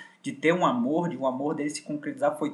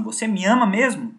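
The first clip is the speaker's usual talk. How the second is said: higher, coaxing mock plea; voicing her higher-pitched as she tests his love; pleading girlfriend; 7 semitones higher, 4 dB louder than usual. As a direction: wheedle him like a manipulative lover. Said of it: "Ela fala assim".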